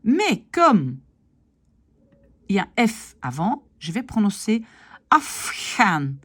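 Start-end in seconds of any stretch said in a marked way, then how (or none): 5.1-6.1 Afghan with the R turned to an H sound; Dutch assimilation. Shown as a demonstration. Teacher demonstrates Afghan to students, R as H. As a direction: say Afghan as afxan, R becomes H. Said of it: "le R ici va devenir H".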